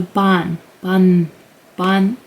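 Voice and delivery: "ban" with open ah and N ending; demonstrated syllable. Shown as a demonstration. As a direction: repeat "ban" as "bahn", pausing between. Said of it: "pronounce it like a n".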